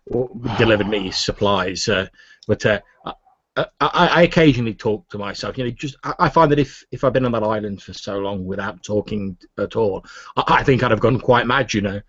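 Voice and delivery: hesitant, stammering recluse; lightly voiced, flustered; a lonely islander covering his embarrassment; nervous old scholar.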